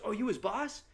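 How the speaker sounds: high, loud mock outrage; drunk indignant friend. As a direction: scold the boss on his behalf. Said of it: "He goes".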